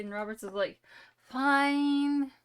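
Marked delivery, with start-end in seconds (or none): 1.2-2.3 exasperated outburst. Acted. Robert gives in to the council.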